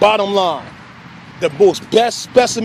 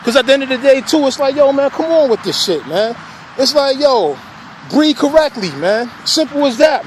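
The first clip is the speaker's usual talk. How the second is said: mildly irritated, raised pitch; exasperated scolding, pitched up; kinda pissed off; 3 semitones higher than usual. Real, not acted. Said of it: "now I'm kinda getting pissed off".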